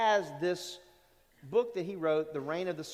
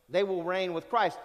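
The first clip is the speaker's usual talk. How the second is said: louder line landing firmly on "Christ"; stress on CHRIST; 5 dB louder than usual. Shown as a demonstration. Preacher stressing the one they reign with, stress on CHRIST. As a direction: put the weight on "Christ". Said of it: "the emphasis is on the one".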